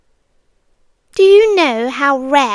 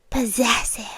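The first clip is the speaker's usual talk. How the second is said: whispered; 3 semitones lower, 6 dB quieter than usual. Acted. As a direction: let the word possessive hang in a whisper. Savouring the word.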